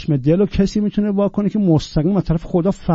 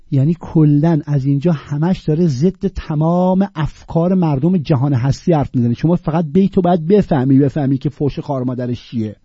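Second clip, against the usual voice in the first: usual speaking voice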